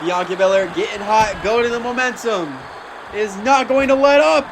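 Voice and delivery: energetic play-by-play, bursts of shouting; wrestling commentator. Acted. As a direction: keep calling the action with rising hype. Continues live match commentary.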